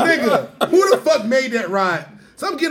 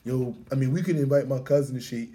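mock friends; 11 semitones lower, 9 dB quieter than usual. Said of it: "Niggas be like".

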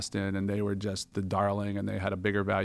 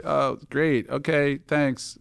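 sarcastic brush-off; 5 semitones higher, 4 dB louder, much slower than usual. Retold or imitated. Mock thanks to fake caller.

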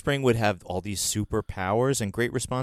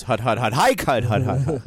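quarterback calling cadence; 5 dB louder than usual. Retold or imitated. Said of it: "the quarterback goes".

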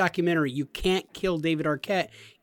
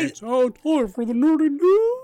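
slow, higher mocking announcer voice; 9 semitones higher, 5 dB louder than usual. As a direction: parody the host's intro. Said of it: "and he goes".

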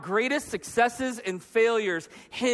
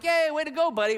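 higher-pitched encouraging praise; cheering dad; 5 semitones higher than usual. Retold or imitated. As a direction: cheer on your little kid. Dad praising his kid.

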